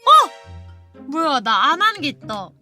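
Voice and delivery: ordinary talk, nothing marked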